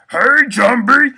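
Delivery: very high, loud, slow squeaky call; Pee Wee Herman voice. Shown as a demonstration. Friend's tip for learning to roar, high squeaky call. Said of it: "try, like, Pee Wee Herman".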